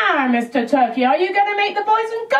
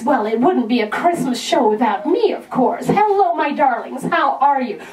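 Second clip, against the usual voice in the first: lightly voiced Cassandra; 5 semitones lower than usual. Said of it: "we've got Cassandra coming".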